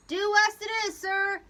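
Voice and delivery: loud, high call back; helmsman's answer. A narrator's reading. Helmsman confirming the new course, calling loudly. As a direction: sing back the order. Helmsman repeats order aloud.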